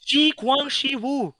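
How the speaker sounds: Shi Guang Shi Wu slow, each syllable spelled out; careful pronunciation. Shown as a demonstration. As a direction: say Shi Guang Shi Wu slowly and deliberately. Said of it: "I don't know how you pronounce that".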